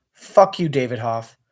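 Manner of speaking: sudden loud swear at the host; a real burst of anger; angry outburst. Real, not acted. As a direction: spit it out, fed up.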